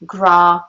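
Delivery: GRA drawn out as "grahh"; elongated A. Shown as a demonstration. Teacher breaks down grass, long "ah" in GRA. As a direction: hold the "ah" in GRA as if an R followed. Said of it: "an R after the A".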